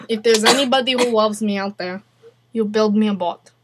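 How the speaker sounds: put-on Russian accent. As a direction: play a Russian making demands.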